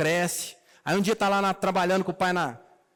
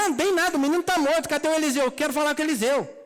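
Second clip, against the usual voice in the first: pretend distraught outburst; 7 semitones higher, faster than usual. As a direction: blurt out the bad news in pretend alarm. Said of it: "Ela devia ter falado".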